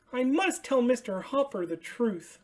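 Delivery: high, bright puppet voice for Ernie; excited high Ernie calling out. Acted.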